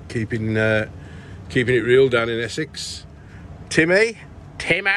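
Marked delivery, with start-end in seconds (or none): 3.7-4.9 excited call. Real, not acted. Calling out friend's name happily.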